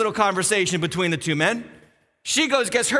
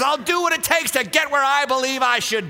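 raised-pitch, driving mock defiance; defiant schemer; 5 semitones higher than usual. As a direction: preach it as a schemer's brazen boast. Preacher voices a schemer's defiance.

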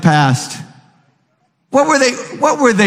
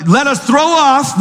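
slow reading; 10 semitones higher, slower than usual. Acted. Preacher reading scripture.

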